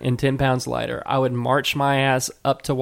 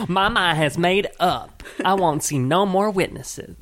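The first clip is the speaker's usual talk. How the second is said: put-on failed Mitch McConnell accent; 4 semitones higher than usual. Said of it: "he wouldn't say it like that. I can't do his accent".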